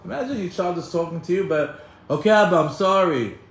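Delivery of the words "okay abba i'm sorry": lightly mocked teen's grudging apology; annoyed teenager. Imitated child talking to a parent without meaning it, mildly annoyed. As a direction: give in grudgingly, a touch put-on. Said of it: "annoyed teenagers with God".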